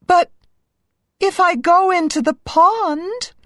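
high-pitched, fretting princess; high, hesitant princess musing; princess thinking aloud. A narrator's reading. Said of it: "she thought".

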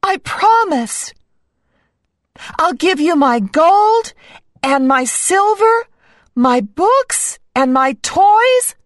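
high-pitched, eager princess voice; high storybook princess listing treasures; promising princess. A narrator's reading. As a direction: promise earnestly, each item lifted high. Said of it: "the princess answered".

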